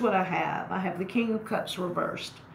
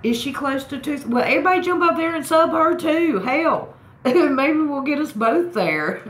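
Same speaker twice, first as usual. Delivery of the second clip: excited shouting; 10 semitones higher, 9 dB louder than usual. Real, not acted. Cheering viewers on to join.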